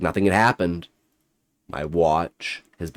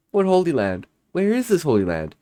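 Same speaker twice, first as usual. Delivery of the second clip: desperate; 12 semitones higher, faster than usual. Acted. Narrator desperately questions creature.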